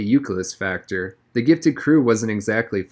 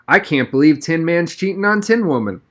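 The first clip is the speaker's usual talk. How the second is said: mock disapproval; 7 semitones higher, 4 dB louder than usual. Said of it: "Sanderson clucked disapprovingly".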